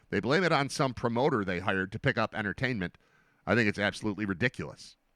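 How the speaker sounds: ordinary delivery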